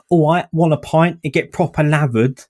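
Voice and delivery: exaggerated stereotypical British voice, punk rock girl. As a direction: put on a stereotypical British pub accent. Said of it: "like, stereotypical ways of talking".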